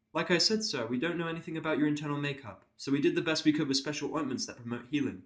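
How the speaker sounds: a careful, apologetic pony nurse. Acted.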